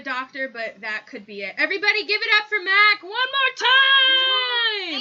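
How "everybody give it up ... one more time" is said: loud, high host call for applause; emcee shout. Real, not acted. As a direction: hype the crowd up loud.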